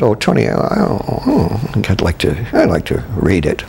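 imitating a halting, reluctant objection; hesitant objection. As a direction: object tentatively, with stammered false starts and little ohs. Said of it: "Alec Guinness objected".

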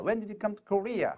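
slow, with Korea falling at the end. Shown as a demonstration. Teacher showing a wh-question falls at the end. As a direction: drag it out and bring Korea down. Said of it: "의문사가 있으면 뒤를 내려 있습니다".

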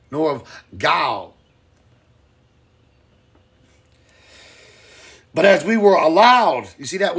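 loud, emphatic reading of the verse; pulpit scripture reading. Acted. Preacher reads Thessalonians to the stream, loud. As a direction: proclaim the text to the congregation.

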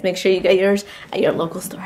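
mock ad whisper. Mock product plug to viewers.

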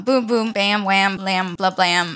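playful nonsense noises stepping down in pitch; string out silly little impact noises; silly sound effects. Real, not acted. Gamer making weird noises while placing wall trim, silly sound effects. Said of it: "weird noises that I make".

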